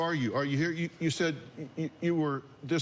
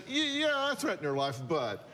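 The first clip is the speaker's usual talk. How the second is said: mocking quote; 2 semitones higher than usual. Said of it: "You just said".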